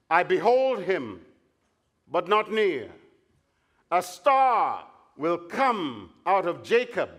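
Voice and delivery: slow, solemn oracle reading; scripture reading. Acted. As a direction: proclaim each phrase with weight. Reads the oracle aloud.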